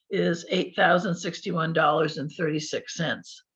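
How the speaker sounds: losing voice, a bit hoarse; strained, fading hoarse voice. Real, not acted. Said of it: "I'm losing my voice".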